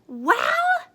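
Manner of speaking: high, loud pointed question; queen demanding her sister answer; demanding well. Acted.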